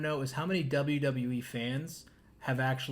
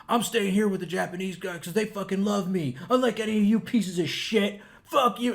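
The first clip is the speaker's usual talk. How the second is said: imitating angry wrestler; 3 semitones higher, 4 dB louder than usual. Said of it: "he said the one thing".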